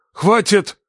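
cutting shout. A narrator's reading. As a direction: slice the air with it. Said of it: "перебил отец, разрезая воздух словно ножом".

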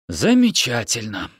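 a touch of dry dismay on ЗАМЕЧАТЕЛЬНО; resigned irony. Acted. Yoni is left with the children, mildly ironic.

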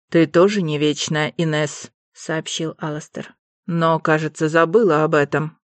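cold lord. Acted. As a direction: put her in her place. Alastair cold rebuke.

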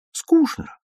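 put-on child's bored complaint; little girl moping to grandmother. A narrator's reading. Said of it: "говорила Таня".

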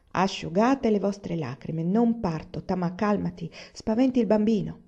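put-on soothing wife and child; consoling. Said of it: "li consolò". (tono consolatorio e dolce)

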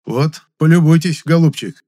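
loud sarcastic remark to the doctor. A narrator's reading. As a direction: needle him with scorn. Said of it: "язвительно сказал".

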